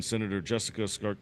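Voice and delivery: ordinary talk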